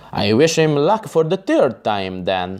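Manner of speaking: ordinary delivery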